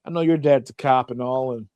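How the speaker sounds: put-on a kid humble-bragging about his dad; hint of a smug schoolkid. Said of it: "you're like".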